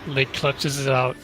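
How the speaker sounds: excited race call. Real, not acted. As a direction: call the finish with a burst of excitement. Live race finish call.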